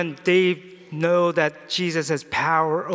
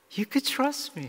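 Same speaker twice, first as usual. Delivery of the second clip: tender, loving, soft and gentle tone; 4 semitones higher, 7 dB quieter than usual. Preaching, the speaker acts out Jesus answering someone of little faith, gently. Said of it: "speaking with a gentle voice".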